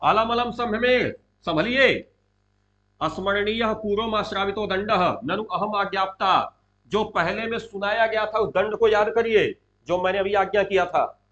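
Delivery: moderately loud acted reprimand; Duryodhana shouting. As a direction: berate the assembly for standing up. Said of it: "चिल्लाता है".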